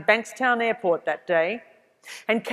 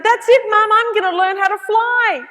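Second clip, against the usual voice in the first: much higher and louder, bursting with news; excited announcement; 12 semitones higher, 8 dB louder than usual. Retold or imitated. Telling Mum she will learn to fly, much higher and louder with excitement. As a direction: announce it like the best idea ever.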